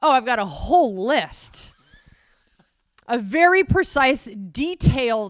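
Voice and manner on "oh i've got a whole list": louder, sarcastic delivery. Retelling own earlier reply about having a list: imitating own sarcastic reply. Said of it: "I was being sarcastic".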